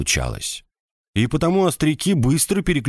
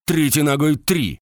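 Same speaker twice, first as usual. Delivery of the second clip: shouting drill sergeant; 6 semitones higher than usual. A narrator's reading. Sergeant continues count.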